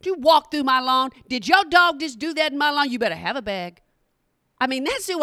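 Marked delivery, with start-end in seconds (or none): 0.0-3.8 a hammed-up grumpy old neighbor scolding; lightly voiced crotchety old man. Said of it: "I'm crotchety".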